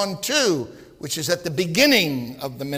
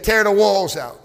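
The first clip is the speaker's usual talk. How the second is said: stern order; 2 semitones higher, 5 dB louder than usual. Acted. Priest orders walls torn out.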